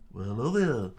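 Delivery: lightly channel Obi-Wan; pseudo Obi-Wan. Acted. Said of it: "Pseudo Obi-Wan".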